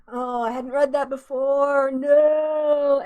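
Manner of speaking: shocked. Real, not acted. Shocked reading bad news aloud.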